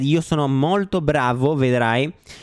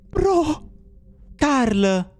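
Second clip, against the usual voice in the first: high, strained cry for a friend; frightened calling out; 8 semitones higher than usual. Real, not acted. Player searching for Carl in the dark, frightened call. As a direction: call out in rising panic. Calls friend after sudden scare.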